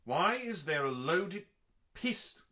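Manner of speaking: startled disbelief, voice jumping up; real shock. Real, not acted. Host suddenly finds a loaded pistol, real alarmed surprise.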